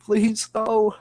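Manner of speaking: high, loud mock plea; scared pleading. Man retelling his scared plea to classmate, high pleading. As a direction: beg like a frightened six-year-old. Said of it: "scared as fuck".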